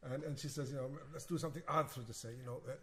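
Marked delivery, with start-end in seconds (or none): 1.1-2.0 light imitation of a Russian accent; lightly imitating a Russian pianist's accent. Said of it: "she has this really Russian accent".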